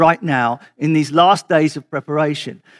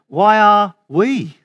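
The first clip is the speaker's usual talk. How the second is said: slow and higher, pressed on the end of "Why are we?"; stress shifted again; 4 semitones higher, 3 dB louder, much slower than usual. Shown as a demonstration. Preacher giving another way to ask, with shifted stress. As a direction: lift the last words of the question. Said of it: "three variations of question in just the way we say it".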